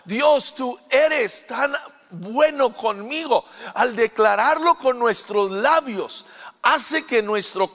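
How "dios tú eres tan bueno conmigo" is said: prayer. Shown as a demonstration. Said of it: "al proclamarle a Dios".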